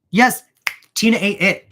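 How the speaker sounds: loud, high-pitched fan excitement; excited defense. Real, not acted. Vlogger hyping up Tina to her audience, excitedly loud. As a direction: gush over Tina to the viewers.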